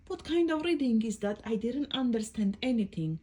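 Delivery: lightly voiced baffled little book; a touch of indignation; complaining storybook book. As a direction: complain in puzzled protest.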